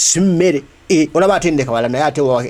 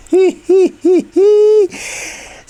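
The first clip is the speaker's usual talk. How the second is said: high cackling laugh; 4 dB louder than usual. Real, not acted. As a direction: burst of high-pitched laughter. Laugh at opponents.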